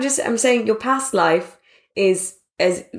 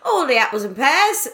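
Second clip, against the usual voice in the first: Cockney street urchin; 5 semitones higher than usual. Retold or imitated. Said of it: "she just becomes a street urchin".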